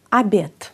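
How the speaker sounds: Αμπιέτ starting on "a" and ending in "t"; final d as t. Shown as a demonstration. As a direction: say Αμπιέτ with a clean voiceless final t. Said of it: "ακούμε εδώ ένα τ". (Αμπιέτ με «τ» στο τέλος)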